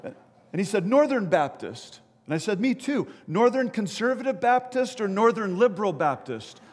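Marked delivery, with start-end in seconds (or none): 0.9-2.0 slow, raised called-out answer; calling back. Acted. Jumper naming his branch to bystander, calling back. 2.6-6.6 raised, eager acted questioning; excited calling. Bystander narrowing down jumper's denomination, excited calling.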